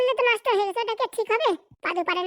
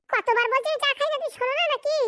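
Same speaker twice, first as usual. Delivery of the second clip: exasperated; 5 semitones higher than usual. Acted. Husband fed up with his wife pushing tea, exasperated. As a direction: throw up your hands over the tea again.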